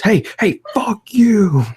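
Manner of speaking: high, loud retold yell; angry yell. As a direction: shout it like an angry driver. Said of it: "he goes".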